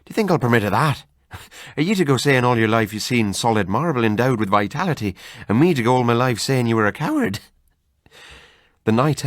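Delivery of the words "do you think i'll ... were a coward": lightly voiced Irish friend, laughing it off; mild Irish brogue mocking old wives' tales; hearty Irish doctor, amused. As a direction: scoff like a jolly Irishman. Narrator voices Kelly.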